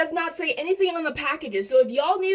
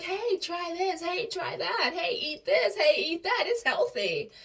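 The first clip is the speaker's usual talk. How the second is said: a hint of a sly salesman, higher and slow at first; mock lobbyist; 4 semitones higher, 3 dB quieter than usual. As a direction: lightly tease like a pushy lobbyist. Mocking lobbyists pushing junk food.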